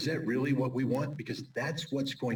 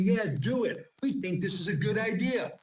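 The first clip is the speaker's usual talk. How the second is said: mock cheerful egging on, higher; sarcastic higher 'go for it'; 9 semitones higher, 3 dB louder than usual. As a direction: sneer at it like a gung-ho backer. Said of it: "We're sitting there saying".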